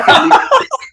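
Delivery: high, loud mock-awkward laugh. Crowd unsure if they may laugh at the joke, imitated awkward laugh. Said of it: "it was an awkward laugh".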